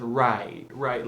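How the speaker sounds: "right" with a hard, extended R; Michigan-style "right", long hard R. Shown as a demonstration. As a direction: lean on the R at the start of "right". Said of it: "we say hard R's".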